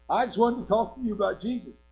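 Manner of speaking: high, strained call toward the porch; mock yell back. Girl yelling back to lady on porch, high mock yell. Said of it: "so I just yelled back at her".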